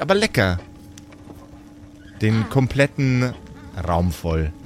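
lightly voiced storyteller, describing the meal; game master narration. A narrator's reading. Game master tells the players about the feast, storyteller voice. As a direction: draw the players into the kitchen scene.

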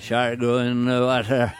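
gruff Jaws sea captain voice; Robert Shaw impression. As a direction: growl it like a salty old fisherman. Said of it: "Robert Shaw in Jaws".

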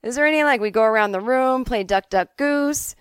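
put-on high, loud, flustered teenager; overwhelmed pupil, pitch jumping up; alarmed student protest. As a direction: halt the teacher in mock panic. Overwhelmed student halts the rushing teacher.

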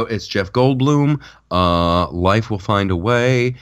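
slow, halting Goldblum drawl; Jeff Goldblum impression. Podcaster doing his bad Jeff Goldblum for his cohost, halting and slow. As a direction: stretch the words out like Goldblum musing. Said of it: "That was my horrible Jeff Goldblum impression".

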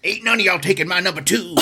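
put-on gruff old-timer guarding his gold; old prospector. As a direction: growl it like a grizzled miner. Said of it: "I turn into, like, an old prospector".

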